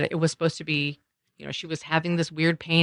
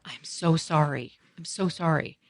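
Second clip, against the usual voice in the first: soft-edged, unhurried remorse; retold apology; 4 dB quieter than usual. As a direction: apologise tenderly, drawing it out. Retold apology to her daughter.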